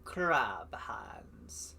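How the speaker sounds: whisper. Acted. Spooky whispered aside.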